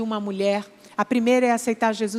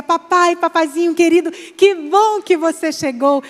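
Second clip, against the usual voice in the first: put-on high, louder child greeting; excited little girl; 5 semitones higher, 5 dB louder than usual. Aninha running to the gate, greeting dad high and excited. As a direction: call out like a delighted little girl. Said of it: "A Aninha corria para o portão e dizia".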